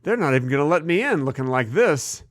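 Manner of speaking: barely changed, own voice as Carson; lazy Carson voice, hardly altered; Johnny Carson impression. Host doing Johnny Carson to his co-host, barely changed. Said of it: "This is Johnny Carson waking up".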